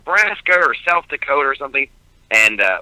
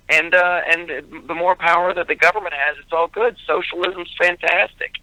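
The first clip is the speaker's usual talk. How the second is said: mocking politicians; 3 semitones higher than usual. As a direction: sell it like a smug candidate on stage. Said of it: "You've got a stage full of people who like".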